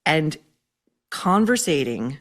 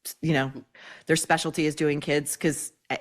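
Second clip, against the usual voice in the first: ordinary talk, nothing marked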